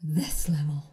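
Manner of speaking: this level whispered, drained; exhausted whisper. Shown as a demonstration. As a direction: breathe it out like you're spent. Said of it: "when you say, I'm exhausted".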